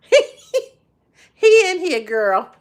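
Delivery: high loud cry of laughter; laughing squeal. Real, not acted. Telling friend Leroy is here, laughing squeal.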